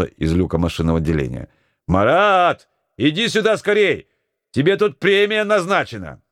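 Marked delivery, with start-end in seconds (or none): 1.9-6.2 excited shout. Acted. Mate calling Marat over to the poster, excited shout. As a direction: shout him over with the news. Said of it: "закричал вдруг Козырев".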